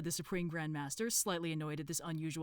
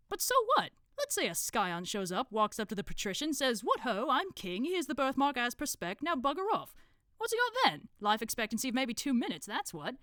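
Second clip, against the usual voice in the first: higher, sceptical cult member; Brother Plasterer; 7 semitones higher, 5 dB louder than usual. Acted. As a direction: argue it down with scornful questions. Brother Plasterer argues in story.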